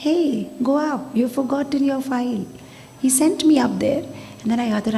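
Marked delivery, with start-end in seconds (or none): 0.1-2.4 slow, kindly nudge; unhurried inner voice giving a gentle prompt; slow, mild instruction; Krishna's gentle voice. Acted. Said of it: "Krishna talks very slowly, very nicely, softly".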